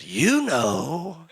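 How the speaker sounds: a knowing, laughing parrot voice; the parrot lets the hint hang with a chuckle; sly parrot. Acted. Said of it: "He said".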